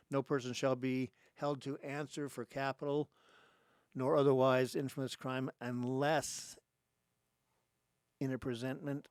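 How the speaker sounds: measured, emphatic reading with long pauses; formal reading aloud. Real, not acted. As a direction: read out a legal text phrase by phrase. Rereads first part of amendment.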